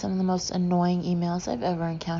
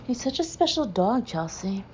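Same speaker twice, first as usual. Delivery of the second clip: gushing friend; 4 semitones higher than usual. Retold or imitated. Michael voiced gushing about Chunk.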